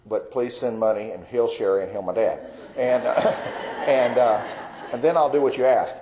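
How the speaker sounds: laughing through the prayer; real laughter breaking into the words. Real, not acted. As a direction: chuckle while pleading with God. Laughing at his own bargaining prayer.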